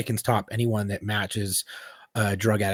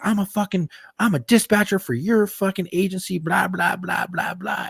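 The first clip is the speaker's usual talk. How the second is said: higher mock outrage, trailing off into blah blah; indignant dispatcher; 8 semitones higher than usual. Cop mocking the dispatcher's rant, higher and fuming. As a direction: imitate her fuming, then let it fade. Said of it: "And she's like".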